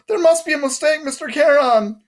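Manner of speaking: high-pitched mimicry of a protesting soul; mock pleading. A narrator's reading. Guard mimics the dead who protest, high mock plea. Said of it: "No screaming, no".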